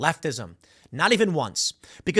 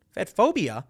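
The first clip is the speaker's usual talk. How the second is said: incredulous echo. Real, not acted. Host questioning the critics' label, incredulous. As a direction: toss the label back as a question.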